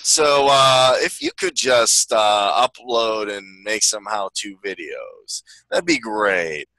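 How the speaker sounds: lightly voiced drawling office boss; slow, drawn-out polite request; Bill Lumberg. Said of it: "Bill Lumberg next time".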